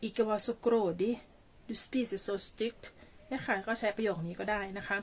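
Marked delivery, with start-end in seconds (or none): 0.1-2.8 very slow, careful model sentence; teacher dictating a phrase word by word; slow example sentence. Shown as a demonstration. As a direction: stretch every word out for students. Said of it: "อย่างเช่น".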